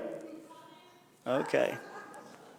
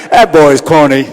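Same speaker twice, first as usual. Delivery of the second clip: mock audience voice; 10 dB louder, slower than usual. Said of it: "You're gonna be driving home saying".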